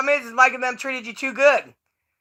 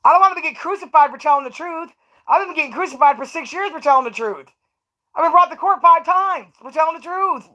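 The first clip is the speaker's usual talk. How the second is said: mock pleading; 4 semitones higher than usual.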